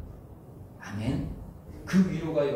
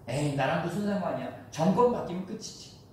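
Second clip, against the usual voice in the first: dismissive shrug; 3 semitones higher than usual. Retold or imitated. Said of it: "이렇게 생각하지".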